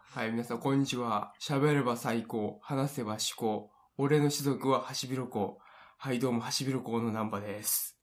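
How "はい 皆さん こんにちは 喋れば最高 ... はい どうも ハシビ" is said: catchphrase intro. Acted. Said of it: "自己紹介ですね".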